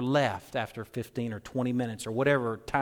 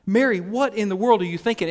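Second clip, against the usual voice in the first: higher, louder, hammed-up shout of disbelief; mock shout; 7 semitones higher, 5 dB louder than usual. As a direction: shout it like scandalized siblings. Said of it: "In unison they shout".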